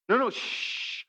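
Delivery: whispered no, no, shush; hushing whisper. Retold or imitated. Husband hushing his wife over a noise, whispered. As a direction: wave her off in a whisper.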